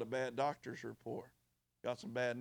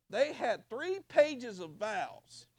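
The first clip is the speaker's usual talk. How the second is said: very slow, higher, stretching "three"; drawn-out emphasis; 7 semitones higher, 4 dB louder, much slower than usual. Retold or imitated. Pastor marveling at a couple's long vows, very slow. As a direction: savor the absurdity. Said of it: "and they had three pages of vows".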